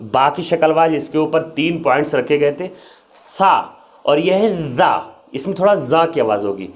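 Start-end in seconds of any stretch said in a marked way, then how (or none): 4.7-4.9 "زا" as a soft th as in "this"; soft airy ZA. Shown as a demonstration. Teacher introducing the lighter za to learners, soft airy za. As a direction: let air through on "زا", tongue tip under upper teeth. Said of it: "اس میں ہوا نکالیں گے".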